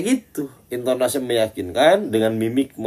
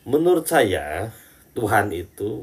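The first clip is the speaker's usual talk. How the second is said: mock confident opinion. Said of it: "Kok enak banget ngomong kayak gitu".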